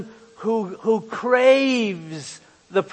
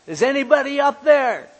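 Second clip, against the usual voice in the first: calling for help; 7 semitones higher, 5 dB louder, faster than usual. Acted. Man hanging from cliff calling.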